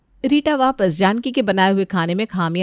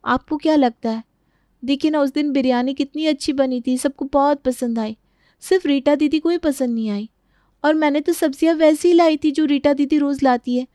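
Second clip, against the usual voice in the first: lightly voiced, higher-pitched daughter-in-law; complaining daughter-in-law; 6 semitones higher than usual. Daughter-in-law confiding in mother-in-law about unfair criticism, mildly aggrieved. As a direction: confide a grievance, mildly hurt.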